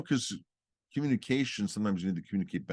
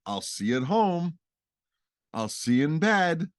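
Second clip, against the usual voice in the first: cheery goodbye; 7 semitones higher, 3 dB louder than usual. Retold or imitated. Mimicking what the couple says.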